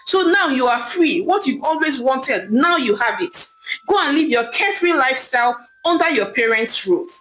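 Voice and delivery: a betrayed husband lashing out; angry barking. Acted. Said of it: "Ame barked angrily at Idara".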